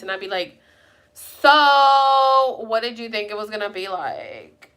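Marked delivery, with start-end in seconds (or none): 1.1-4.7 loud drawn-out "so", then controlled; irritated. Retold or imitated. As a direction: replay your strained irritation at him. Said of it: "I get irritated, so you can hear in my voice".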